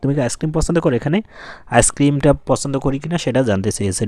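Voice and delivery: usual speaking voice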